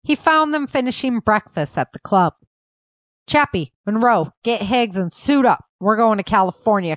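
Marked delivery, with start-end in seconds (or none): 3.3-7.0 commanding. Acted. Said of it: "Cole commanded".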